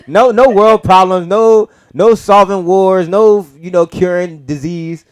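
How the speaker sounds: slow, loud, word by word; slow emphatic listing. Real, not acted. Mocking what time travellers ignore. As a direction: drag it out to make the point.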